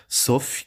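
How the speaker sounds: "Sauf" as "sóf", F pronounced; sounded final F. Shown as a demonstration. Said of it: "você vai pronunciar".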